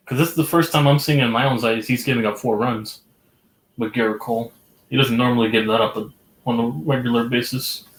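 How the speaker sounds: faint accidental lisp; words with a slight lisp. Real, not acted. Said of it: "Sounded like I had a lisp on that sentence".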